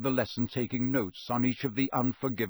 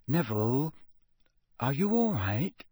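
careful, rising question; concerned; 3 semitones higher than usual. A narrator's reading. Girl checks on her shaken friend, concerned. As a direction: gently probe whether he is okay.

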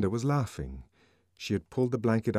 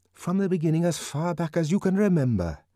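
Bernard's voice; 8 semitones higher than usual. A narrator's reading. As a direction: urge him to tell everything. Bernard urging.

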